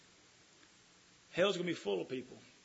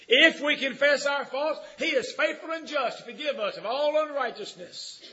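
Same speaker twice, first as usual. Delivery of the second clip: loud, slow, high preacher's cry; booming sermon delivery; full-force preaching; 9 semitones higher, 8 dB louder than usual. Acted. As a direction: preach it out to the pews. Preaching, scripture shouted.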